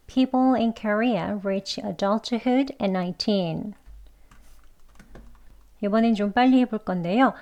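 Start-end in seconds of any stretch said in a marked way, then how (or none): 0.1-3.7 every word of the sentence slowly and evenly spaced; slow careful reading. Shown as a demonstration. Teacher reading an example sentence slowly for learners. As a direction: read it out very slowly for the class. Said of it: "한 번 더요".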